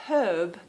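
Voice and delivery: herb said without the H, as "erb"; dropped H. Shown as a demonstration. Telling a friend how Americans say herb, "erb" with no H. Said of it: "he heard the word".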